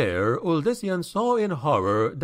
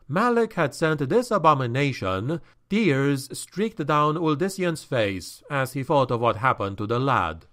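usual speaking voice

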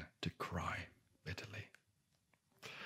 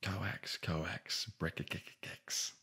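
croaking toad son; 4 dB quieter, slower than usual. Acted. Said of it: "was all that her son could say".

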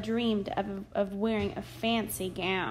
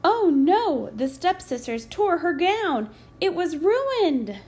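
crying Cinderella; 7 semitones higher, 6 dB louder than usual. A narrator's reading. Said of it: "Cinderella cried".

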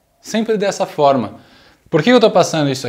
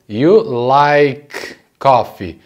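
very slow "like", held apart from "coffee"; words separated; much slower than usual. Shown as a demonstration. Teacher breaking down the sentence for learners, very slow separated words. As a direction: stretch "You like coffee" out word by word. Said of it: "Deixa esse som se bater".

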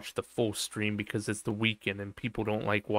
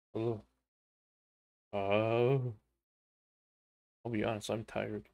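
ordinary talk, nothing marked

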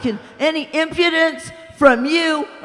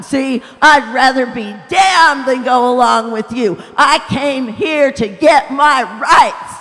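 loud, higher furious tirade; furious rant; 4 semitones higher, 9 dB louder than usual. A narrator's reading. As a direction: rage and refuse to go. Ghost rants, refusing.

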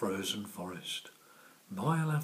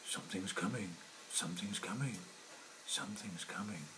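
fading to a whisper; 5 dB quieter, faster than usual. Acted. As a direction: let it sink into a hush.

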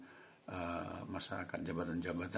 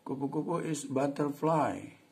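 put-on child's answer; 8 semitones higher, 6 dB louder, slower than usual. Shown as a demonstration. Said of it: "Jadi bisa diulang dari atas tadi ya".

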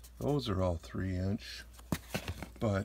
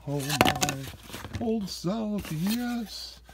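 much higher and louder, squealing over each find; real excitement; 12 semitones higher, 3 dB louder than usual. Real, not acted. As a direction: gush with collector's glee, whooping. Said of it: "I'm getting too excited by looking at 'em".

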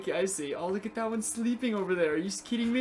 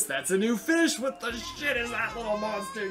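excited shout; 4 semitones higher than usual. Real, not acted. Gamer spotting a weird new fish, shouting in surprise. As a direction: yell it out, stunned by the little monster.

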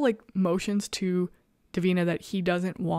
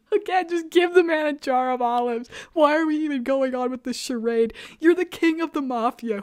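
comic exasperation; 5 semitones higher, 4 dB louder than usual. Real, not acted. Mock rant about the olive man.

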